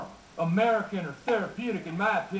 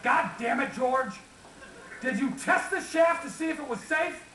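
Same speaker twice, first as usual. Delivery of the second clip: exasperated dad; 5 semitones higher than usual. Retold or imitated. Dad berating George in mine.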